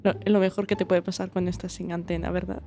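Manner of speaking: speaking through hiccups. Real, not acted. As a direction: talk between small hiccups. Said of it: "ahora me ha dado el hipo".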